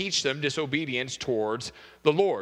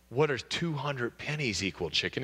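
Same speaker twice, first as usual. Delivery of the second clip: husband asking chicken; 4 semitones lower, 4 dB quieter than usual. Acted.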